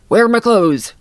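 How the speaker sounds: put-on a sleepy girl suddenly realizing she's naked; groggy alarm. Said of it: "And she's like".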